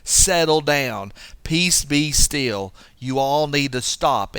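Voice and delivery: put-on slow, firm scolding of a child; acted parent calming unruly children; talking to a child. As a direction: settle them down firmly, word by word. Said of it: "as if they are a child".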